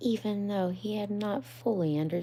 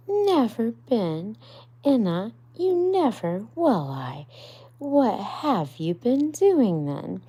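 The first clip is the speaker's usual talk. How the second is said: can't believe what he's hearing; astonished Rat; 7 semitones higher, 10 dB louder than usual. Acted. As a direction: Rat incredulous at Mole, higher and loud. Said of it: "cried Rat".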